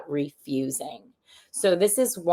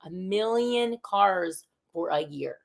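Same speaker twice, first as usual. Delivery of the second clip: slow repeated; 3 semitones higher, slower than usual. Shown as a demonstration. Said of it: "repeated for emphasis".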